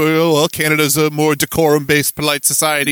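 prim, lofty snooty tone. Retold or imitated. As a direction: say it like a stuck-up snob. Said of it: "That's why I said it in the snooty voice".

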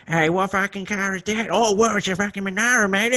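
mock chatter of rude blokes at the movies; rowdy moviegoers. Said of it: "and they're like".

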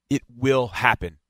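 slow, emphatic "will"; unhurried stress on the word "will". Real, not acted. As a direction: repeat it deliberately, weight on "will". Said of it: "And I stress the word will".

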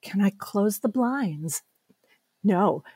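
soft, slow de-escalating offer; calming parent, retold. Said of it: "trying not to, like, build on the energy".

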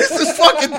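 high, loud words through real laughter; laughing. Real, not acted. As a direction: crack up while trying to speak. Cracking up at co-host's joke.

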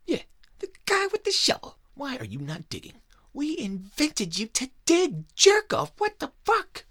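yelling alien boss. Retold or imitated. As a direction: bellow at the slacking digger. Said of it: "they're like".

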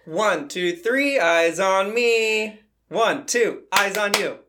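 slow sing-song classroom call; kindergarten teacher voice. Shown as a demonstration. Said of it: "So you get kids' attention".

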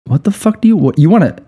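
high, incredulous angry yell; a retold furious boss shouting at a caller; mock furious yell. Right-hand man yelling at a prank caller, high and mock furious. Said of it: "he was so fucking mad".

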